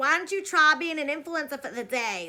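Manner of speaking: put-on loud, wild, heavy Boston accent laid on thick. Quoting an influencer's rant video: imitating a crazy boston accent. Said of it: "her and her crazy Boston accent".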